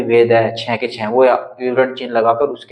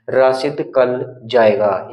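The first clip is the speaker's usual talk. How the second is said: slow dictation reading; much slower than usual. Shown as a demonstration. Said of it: "ये ऐसे लिखा था".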